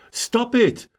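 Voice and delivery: earnest order to quit; sincere command. Real, not acted. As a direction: tell them straight, meaning it. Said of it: "I couldn't say it with more sincerity".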